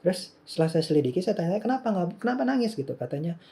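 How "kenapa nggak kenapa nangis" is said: concerned question. Retold or imitated. Father asks crying son why.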